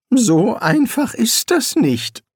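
weary wizard, held back; Rincewind. A narrator's reading. Rincewind voiced by narrator. (höhere, langsame Zaubererstimme)

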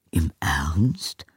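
whispered in surprise; breathless disbelief; astonished. Acted. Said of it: "fragte der Erzkanzler verblüfft". (verblüfft geflüstert)

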